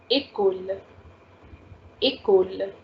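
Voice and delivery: "école" as one word, "ay-kol"; A sound for é. Shown as a demonstration. Teacher modelling the example for students, "école" joined as ay-kol. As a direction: model "école" evenly with a clear "ay" at the start. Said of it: "we need to give A sound".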